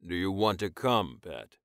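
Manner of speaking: low, deliberate repeat of the tease; commanding lover. Acted. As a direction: ask again, holding all the power. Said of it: "Rojan asked again".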